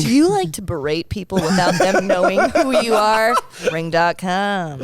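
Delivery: mock ad pitch. Improvising a sponsor's ad copy.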